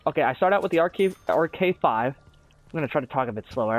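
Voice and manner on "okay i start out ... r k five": quick, tumbling gamer chatter; racing through the explanation; rushed talking. Real, not acted. Gamer explaining his strategy to viewers, talking too fast. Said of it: "I don't know why I'm talking so fast".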